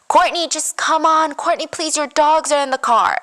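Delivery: high-pitched imitation of coaxing; retold pleading. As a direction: plead with her to come along, lightly acted. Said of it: "he keeps pleading with her".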